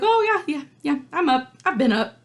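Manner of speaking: high, drowsy "I'm up" act; sleepy teen voice. Retold or imitated. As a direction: pretend you just woke. Juliet voiced, pretending awake.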